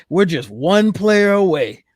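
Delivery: slightly drawn-out mimicry of fans; lightly mock their optimism, stretching it slowly; mock hopeful fan. Co-host imitating what Washington always feels like, mildly mocking slow delivery.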